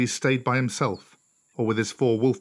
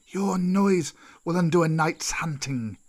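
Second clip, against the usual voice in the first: slow, higher, drawn-out snake scolding; angry snake; 5 semitones higher than usual. Acted. Old snake scolds Mowgli for his noise, slow and cross. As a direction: scold slowly as an irritated old serpent. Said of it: "said Kaa angrily".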